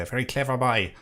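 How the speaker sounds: light imitation of his accent, "boy" as "bye"; Blind Boy. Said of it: "as he would say".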